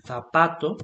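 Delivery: "zapato" with initial Castilian TH; tongue-between-teeth TH opening "zapato". Shown as a demonstration. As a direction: begin "zapato" like English thunder. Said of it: "it's like a T H".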